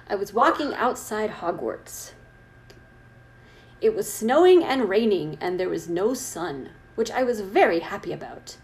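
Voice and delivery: measured fan fiction read-aloud; story narration. Acted. Reader reciting goth fan fiction to co-host, story narration. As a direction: read it out with weight on the descriptions.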